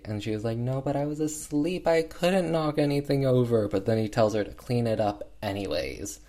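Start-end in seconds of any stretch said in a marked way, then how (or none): 0.6-3.7 a hint of the high mock Cockney girl; lightly voiced Cockney child, higher. Girl protesting to her abusive dad, lightly mock Cockney. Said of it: "that's how she talks".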